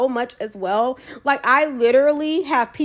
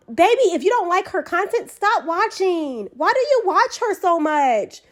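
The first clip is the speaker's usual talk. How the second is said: sassy advice; 5 semitones higher than usual. Shown as a demonstration. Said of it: "you should have said it this way".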